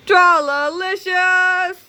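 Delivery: slow, drawn-out, high and loud; gleeful catchphrase. Acted. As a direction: savour every syllable of it.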